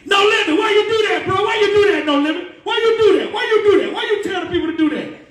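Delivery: high, loud, whining reproach; hammed-up stage scolding; mock scolding. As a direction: call him out over the mic.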